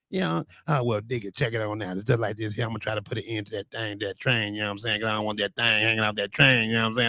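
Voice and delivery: a hint of Unc's slang. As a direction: ease into a laid-back seventies patter, lightly. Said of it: "so that's how Unc talk".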